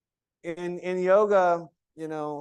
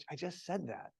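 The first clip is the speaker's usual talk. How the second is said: soft, patient and friendly; gently, a patient teacher; gentle; 13 dB quieter than usual. Shown as a demonstration. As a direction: say it kindly, no edge. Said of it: "exactly the same words".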